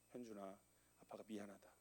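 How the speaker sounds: very soft, low gentle apology; tender apology. Retold or imitated. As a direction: say sorry softly to the child. Kneeling apology to son. (아들에게 무릎 꿇고 조용히 사과)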